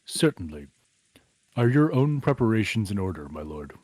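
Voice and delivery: low, formal butler. Acted. Voices Genji.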